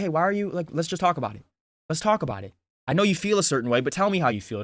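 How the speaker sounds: calming. Retold or imitated. Calming an upset girl, let's talk about it, soothing. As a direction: talk someone down gently. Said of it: "I calm them down in real time".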